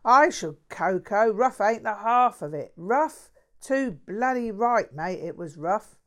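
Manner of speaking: a mouthy London bloke bragging; lightly voiced cheeky Cockney; Cockney mate. Jack indignant.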